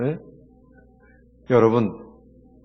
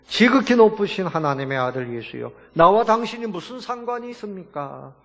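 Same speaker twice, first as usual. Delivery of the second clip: mock crying out, rising higher in the second phrase; imitated loud plea; 5 semitones higher than usual. Pastor voices the demon bowing to Jesus, imitated loud plea. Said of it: "큰 소리로".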